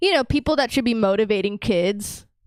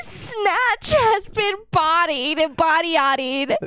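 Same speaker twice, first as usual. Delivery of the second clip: slow shout; 5 semitones higher, slower than usual. Pretend. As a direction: belt it out slowly. Mock news bit, shouted slowly.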